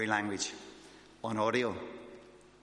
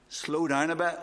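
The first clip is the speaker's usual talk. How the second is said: higher, louder call to slow down; wife's reminder; 5 semitones higher, 4 dB louder than usual. Retold or imitated. Wife telling her fast-talking husband to slow down, higher and louder. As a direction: nudge him like a wife across the church. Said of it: "Joan will say to me".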